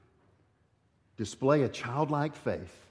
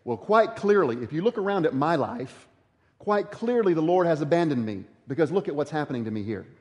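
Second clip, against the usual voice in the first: mock complaint. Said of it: "join in with Israel and say".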